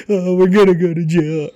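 high, slow mock wail; hammed-up tearful whine; mock crying. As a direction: imitate a crying friend, drawn out. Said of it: "He was crying".

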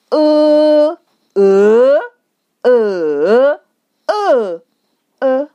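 "呃" level, rising, dipping, falling, short; Mandarin tone drill. Shown as a demonstration. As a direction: run "呃" through all five tones in order. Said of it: "I put different tones on them".

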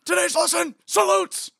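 high, loud drill instructor bark; barking gym coach. Retold or imitated. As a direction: yell orders at recruits.

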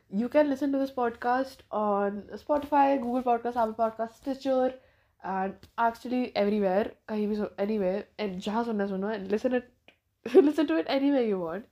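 blocked nose, nasal tone. Real, not acted. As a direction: talk through a stuffed nose. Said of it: "so that's why I sound very nasally".

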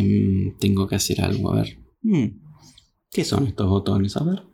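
low musing pig checking buttons; puzzled pig talking to himself; a hint of a curious cartoon pig; pig muttering. Pig examining truck buttons.

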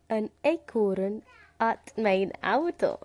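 halting learner's go at Dutch "An eekhoorn at mijn auto"; slow, badly pronounced Dutch "An eekhoorn at mijn auto"; bad Dutch attempt. Shown as a demonstration. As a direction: try "An eekhoorn at mijn auto" slowly with a foreign accent. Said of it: "That sounds really bad".

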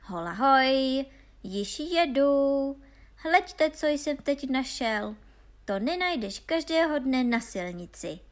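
loud, high halloo, drawn out at first; excited storybook shout down the road; calling after them. A narrator's reading. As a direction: holler ahead about an exciting find. Honza calls after his brothers again.

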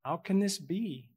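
simple innocent. Retold or imitated. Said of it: "She says simply and innocently".

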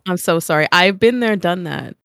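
congested, stuffy voice; blocked nose. Real, not acted. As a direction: speak through a blocked nose. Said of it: "you can tell I'm still congested".

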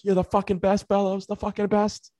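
high-pitched imitated jeering; mock bench chirp. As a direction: turn and needle a buddy in a put-on high voice. Imitating player turning round to heckle.

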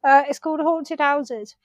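talking through vape smoke; words round a lungful of vape; vape in mouth. Real, not acted. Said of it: "I thought you were putting on a funny voice".

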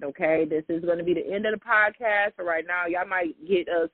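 ordinary delivery

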